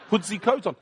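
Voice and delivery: put-on light French accent, "the" said as "ze". Pastor insisting to the speaker, in a light French accent. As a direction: say "Put the coat on" with "the" as "ze". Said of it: "That's the French accent for you Americans".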